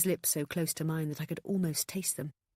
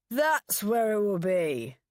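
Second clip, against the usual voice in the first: first word shouted, rest mumbled; shout then mumble; 6 semitones higher, 6 dB louder, slower than usual. A narrator's reading. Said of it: "shouting the first word".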